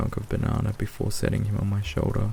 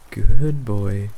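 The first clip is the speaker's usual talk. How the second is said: hearty praise; 10 dB louder than usual. A narrator's reading. Owner praises parrot with treat.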